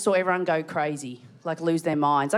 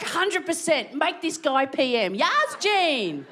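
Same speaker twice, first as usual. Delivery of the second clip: eager fans; 6 semitones higher, slower than usual. Retold or imitated. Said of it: "They're like".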